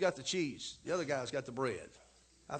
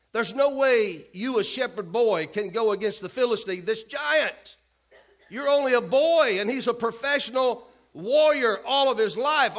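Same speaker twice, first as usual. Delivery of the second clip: scornful king; 6 semitones higher, 10 dB louder than usual. Acted. Saul scolds young David.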